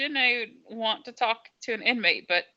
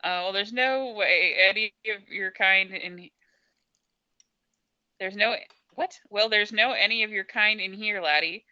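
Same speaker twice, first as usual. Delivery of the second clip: Scottish governor. Acted. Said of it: "Oh, he's Scottish".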